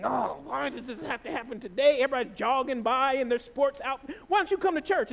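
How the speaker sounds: mock exasperated rant, rising in pitch; seething. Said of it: "I'm driving and I'm just seething".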